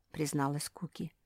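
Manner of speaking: usual speaking voice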